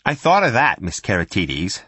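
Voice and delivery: syrupy menace; sweetly. Acted. Irene taunting Sophie over the empty pot, falsely sweet. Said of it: "said that bitch sweetly".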